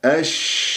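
long hushed sh in أش; prolonged "ashhh" demo; spreading shin. Shown as a demonstration. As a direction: let the sh of أش spread inside the mouth. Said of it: "التفشي داخل الفم".

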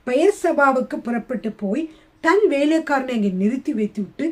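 emphatic, measured reading aloud to a congregation; scripture reading. A narrator's reading. Preacher reading Elijah's story to listeners, declaimed scripture. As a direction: read the passage out firmly, with weight on key phrases. Reads out the Bible passage.

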